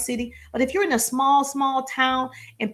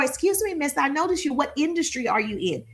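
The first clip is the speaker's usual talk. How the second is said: bright, high "Excuse me" to a stranger; polite approach voice; 3 semitones higher than usual. Shown as a demonstration. Coach shows how to greet a woman, polite and high. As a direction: open politely and a bit high.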